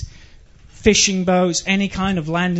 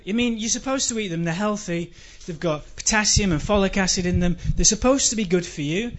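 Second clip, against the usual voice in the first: ordinary talk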